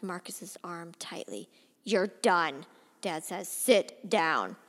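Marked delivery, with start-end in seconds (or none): 1.8-2.7 louder, clipped order; father cutting his son off; stern command. Acted. Father grabbing son's arm. 3.5-4.6 low, louder command; stern order. Acted. Father ordering son.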